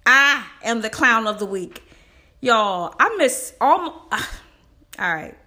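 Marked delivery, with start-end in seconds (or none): 0.1-1.8 loud self-roast declaration; loud proud declaration. Real, not acted. Declares herself clown of week.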